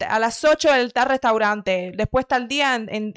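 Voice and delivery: half-hearted mock bossy planner; bossy girlfriend. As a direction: lay down the schedule item by item. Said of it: "me da pereza hasta actuar de eso".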